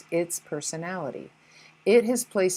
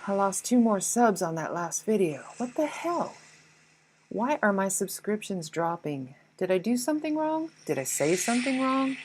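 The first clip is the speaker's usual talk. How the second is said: wounded creator ego. Retold or imitated. Ego of a youtuber losing subs, mock self-righteous. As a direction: play the hurt youtuber sure it's not them. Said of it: "Or how about these?".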